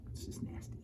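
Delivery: hushed whisper of disgust; grossed-out whisper. Retold or imitated. Disgust after "you're like.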